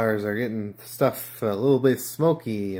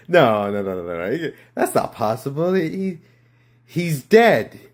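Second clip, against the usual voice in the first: panicked denial; 7 dB louder than usual. Acted.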